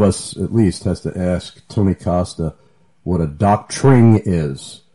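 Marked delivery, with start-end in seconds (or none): 3.3-4.2 "doctrine" said slowly, copying someone's odd pronunciation; imitated pronunciation. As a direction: draw out "doctrine" in a teasing imitation. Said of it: "that's the way he pronounces it".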